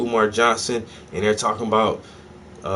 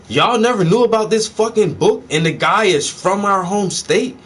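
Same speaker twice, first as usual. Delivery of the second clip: retold cussing out. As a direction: replay chewing out the family, rising as it goes. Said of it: "I cursed all of 'em out".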